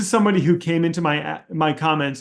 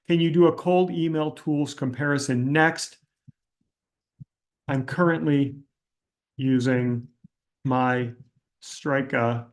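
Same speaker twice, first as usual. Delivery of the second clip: model comment reading; 2 semitones lower than usual. Shown as a demonstration. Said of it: "You would reword this thing by saying".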